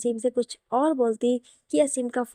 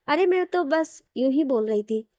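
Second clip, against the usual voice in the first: mildly defensive, offhand excuse; casual backpedalling; 3 semitones higher than usual. Acted. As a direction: lightly brush it off as idle talk. Brushes off her earlier remarks.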